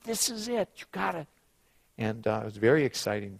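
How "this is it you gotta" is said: high, softened coaxing; reassuring, urging. Retold or imitated. Friend urging Sean to believe, imitated reassurance. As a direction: gently urge a friend along in a raised pitch. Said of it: "he's reassuring Sean".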